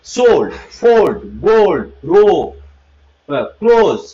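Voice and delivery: সোল্ড, ফোল্ড with drawn-out 'o'; slow spaced list, long 'o' in গোল্ড; 'o' sound demo. Shown as a demonstration. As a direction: model ক্লোজ with a round 'o'. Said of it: "এটা ও উচ্চারণ".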